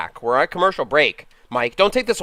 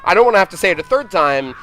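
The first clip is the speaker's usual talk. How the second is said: sportscaster voice. Acted. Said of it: "the sportscaster voice".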